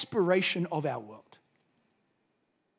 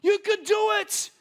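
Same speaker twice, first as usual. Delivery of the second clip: high, loud cheering from the trackside; yelled encouragement; 9 semitones higher, 3 dB louder than usual. Retold or imitated. Teammate running beside his mate, yelling him on, loud and high. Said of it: "yell encouragement at him".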